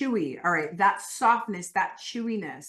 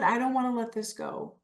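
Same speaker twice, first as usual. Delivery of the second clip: slightly raised, keen reluctance; animated clinging; 3 semitones higher than usual. Shown as a demonstration. Coach voicing attachment to food for the group, animated. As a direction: hold on to it eagerly.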